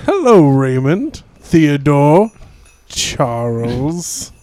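slow, hearty Santa. Pretend. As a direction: play a jolly Santa. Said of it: "It's Santa Claus".

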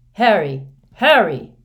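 loud, urgent calling of a name; urgent shout. A narrator's reading. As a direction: shout to rouse him, voice jumping up. Urgent call to injured boy.

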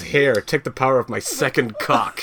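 laughing quote. Retold or imitated. Quoting Fudd while laughing.

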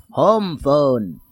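slow, low croak as E.T; imitating E.T. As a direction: drag it out like the alien. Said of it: "he says".

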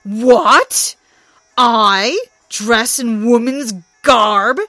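outraged loud shout, slow. Acted. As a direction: bellow in disbelief. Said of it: "shouted Thor".

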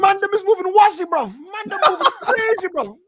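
high, hammed-up Jamaican accent. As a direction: put on a Jamaican accent, laughing. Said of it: "Hollywood sounding Jamaican".

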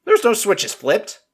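mocking disbelief at the excuse; incredulous. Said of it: "I'm like".

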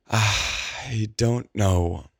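drawn-out, teary murmur; tearful, very slow. A narrator's reading. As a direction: let it stretch out, lost. Penelope bewildered, still tearful.

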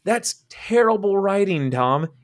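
high, worked-up disbelief; laughing indignation; exasperated rant. Real, not acted. Ranting at the Martha scene.

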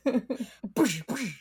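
playful whooshing "boosh"; soft comic explosion sounds; imitated explosion noise. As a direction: mouth the little blasts, boosh. Imitates exploding mosquitoes with arms.

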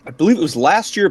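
ordinary talk

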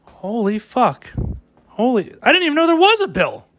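fake-gasp at the revelation; hammed-up astonished gasp; mock shock.

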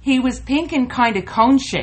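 laughing. Real, not acted. Laughing while quoting friend.

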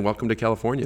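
軽くアメリカ英語のアクセントで; Aussie putting on a light American accent. Acted. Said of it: "I just have to put the American accent in there".

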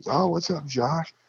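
high, sing-out retold hello; cheery greeting. Buddy Sean coming up to say hello, cheery. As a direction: imitate an upbeat pal, pitched well up.

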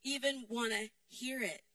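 loud, high, angry outburst; hot-headed shout. Retold or imitated. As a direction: yell like you're fed up. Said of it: "It's like".

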